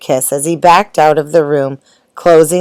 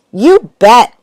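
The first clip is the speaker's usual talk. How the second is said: put-on bright, louder call of a boy; yelled; 6 semitones higher, 5 dB louder than usual. A narrator's reading. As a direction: shout it out eagerly. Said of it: "yelled Lester".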